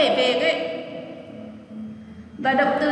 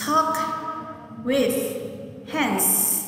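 word by word; 5 dB quieter, much slower than usual. Shown as a demonstration. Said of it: "Nhắc lại lần nữa nào".

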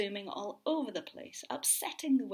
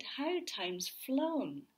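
higher, fussy bird voice; fussy flock; 5 semitones higher, 4 dB louder, slower than usual. Acted. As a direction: cluck it like fussy gulls. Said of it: "who said".

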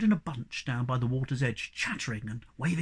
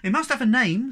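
put-on high girlish voice; 9 semitones higher, 8 dB louder than usual. Snork Maiden voiced in story.

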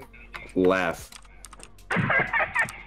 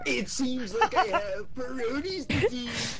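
laughing; 9 semitones higher, 9 dB quieter, slower than usual. Acted. Laughing echo of joke.

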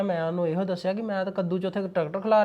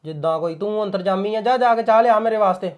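louder cut-off; husband silencing wife's suspicions; curt dismissal; 4 dB louder than usual. Acted. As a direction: shut her down. Shuts wife down.

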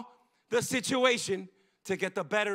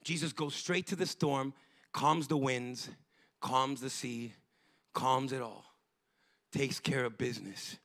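quiet calm telling; 7 semitones lower, 7 dB quieter than usual. Acted. Calm after the storm.

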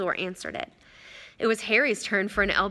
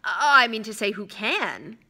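nervous; 4 dB louder, slower than usual. Acted. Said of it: "upper lip was sweating now".

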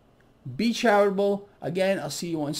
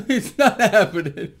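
laughing; 4 dB louder than usual. Real, not acted. Breaks up at own duhs.

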